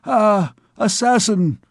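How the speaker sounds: the king cries out at the price; a high, drawn-out indignant cry. A narrator's reading. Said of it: "cried the king".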